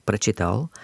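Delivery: прочитал stressed on the final тал; прочитал, leaning on its last syllable. Shown as a demonstration. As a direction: put the stress at the end of прочитал. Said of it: "stress is on the last syllable".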